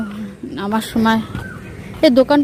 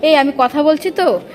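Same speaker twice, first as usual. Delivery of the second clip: echo; 3 semitones higher than usual. Real, not acted. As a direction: voice echoing in a stone tunnel. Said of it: "ইকো হচ্ছে।".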